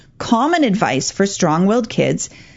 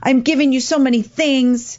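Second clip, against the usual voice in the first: lightly acted hurt plea, higher voice; hurt parent; 5 semitones higher than usual. Parent pleading with a power kid, acted hurt. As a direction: plead as a wounded parent, pitched up. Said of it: "The parent might get hurt".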